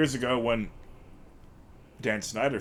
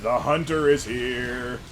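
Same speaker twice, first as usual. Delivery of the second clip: villain voice; 2 semitones higher, slower than usual. Acted. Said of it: "I like reading in my villain voice".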